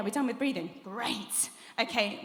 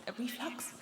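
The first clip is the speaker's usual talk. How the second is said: questioning; 2 semitones higher, 9 dB quieter than usual. Real, not acted.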